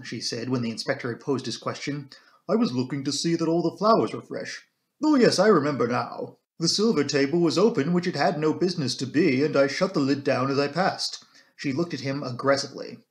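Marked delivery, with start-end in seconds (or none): 2.5-11.2 lightly voiced housekeeper, firm and sure; a hint of a firm housekeeper giving her account; composed housekeeper. Housekeeper explaining to the inspector why she was there, composed.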